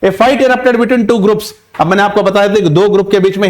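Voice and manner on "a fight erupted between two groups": slow example sentence. Shown as a demonstration. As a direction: read each word out slowly and clearly. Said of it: "examples के जरिए मैं आपको समझाना चाहूंगा". (धीरे-धीरे साफ़ पढ़ा गया उदाहरण वाक्य)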